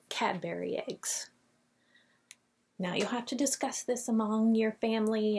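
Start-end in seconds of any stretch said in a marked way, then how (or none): 0.1-1.3 a conspiratorial whisper on the candy name. Acted. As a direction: lean in and whisper it like a secret. Playful secret choice between candies.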